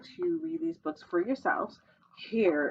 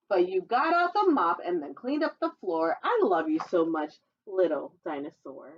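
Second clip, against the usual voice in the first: put-on reading to children. Reading a dinosaur picture book to children, sing-song storytelling voice. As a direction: read the rhyme brightly to little listeners.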